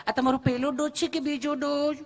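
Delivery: a nurse asking sweetly, lightly played; lovingly asking nurse. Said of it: "nurse બેને પ્રેમથી પૂછ્યું".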